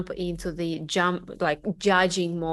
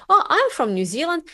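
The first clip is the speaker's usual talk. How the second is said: higher, proud mock husband voice; 6 semitones higher, 4 dB louder than usual. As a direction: puff up like a proud husband introducing his wife. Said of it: "he was like".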